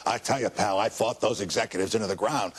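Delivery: lightly voiced throaty pal-talking executive; a hint of a sore-throated tough old pal; Tebbutt impression. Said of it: "he always talked like this".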